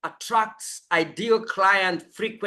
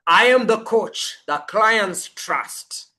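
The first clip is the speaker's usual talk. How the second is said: said with conviction; 2 semitones higher than usual. Shown as a demonstration. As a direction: claim every word as your identity. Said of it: "No, it's".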